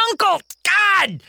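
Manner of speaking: high, slow pained surrender; giving in, near tears. Acted. Kingston surrendering to Mary, pained and slow. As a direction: give up through held-back tears.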